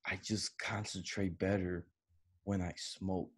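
softly confiding stoner. Retold or imitated. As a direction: tell it like a secret. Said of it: "And he told me that".

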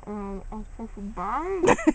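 talking around gauze; words muffled by a full mouth. Real, not acted. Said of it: "Is that too much in your mouth?".

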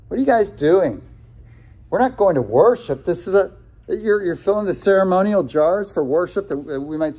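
lightly voiced sneering wedding guest; mocking partygoer. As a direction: tease the servants as a snooty guest. Voicing objectors to the servants.

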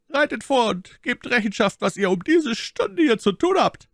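a light hint of a commanding officer, high and loud; imperious tone. A narrator's reading. Officer questioning the musketeers, mild imperious demand. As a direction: demand it as one who must be answered. Officer orders them forward.

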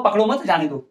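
पकड़ो मत joined, short break before जाने दो; small stop after मत, then जाने दो; pause after मत. Shown as a demonstration. Teacher asking what it means, pause after मत. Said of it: "यहां पर विराम चिन्ह लगाया".

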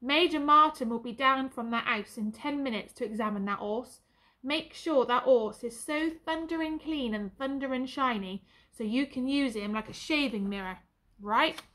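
booming sergeant. Acted. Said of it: "came that booming voice again".

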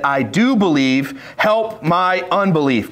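slow, emphatic scripture reading; mild frustration. Retold or imitated. Boy's father cries out to Jesus, mild frustration. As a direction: weigh each word with a touch of frustration. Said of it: "Can you see the frustration in his voice?".

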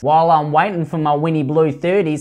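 quick broad Aussie patter; mock Australian woman. Commentator mocks Australian women in cigarette line, exaggerated Australian accent. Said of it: "Australian women who sound like that".

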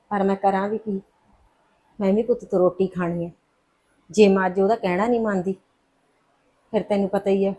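mother quietly admitting she is powerless; helpless sorrow. Acted. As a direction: confide your helplessness quietly.

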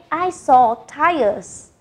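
said slowly for students to copy; slow model sentence. Shown as a demonstration. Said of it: "Listen again and repeat".

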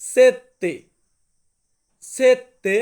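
loud, clear সেত্তে, hold the tt; Italian word demo. Shown as a demonstration. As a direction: model সেত্তে loudly for learners. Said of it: "সাতকে আমরা Italian ভাষাতে বলবো".

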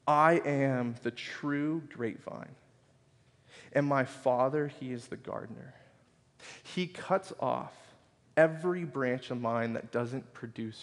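slow, deliberate Bible reading; measured, reverent recitation; scripture reading. Acted. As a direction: read it out with weighted pauses. Reads scripture aloud to congregation.

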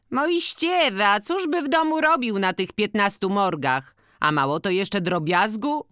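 high-voiced village matron complaining; organist's wife, plaintive. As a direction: pitch it well up, drawing out the opening word. (wysoki, narzekający głos organiściny)

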